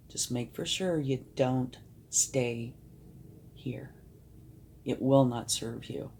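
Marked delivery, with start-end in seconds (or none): 2.1-3.9 whispered. Real, not acted. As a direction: whisper the last word. Urging not to stay.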